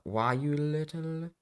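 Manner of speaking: high, slow, hammed-up outraged growl; villain fury. Furious father raising his fist at his son, hammed-up outrage. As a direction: play the cartoon villain's sputtering rage.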